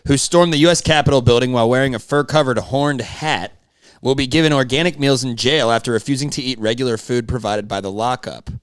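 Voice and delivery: measured newsreader read; news voice. Acted. Co-host reads the article to the audience in a news voice. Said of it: "I got that fucking news voice".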